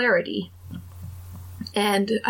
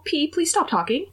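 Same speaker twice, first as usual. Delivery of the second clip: high, mortified pleading; embarrassed plea; 8 semitones higher than usual. Retold or imitated. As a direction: beg a friend to shut up, pitched up. Begs friend to stop matchmaking.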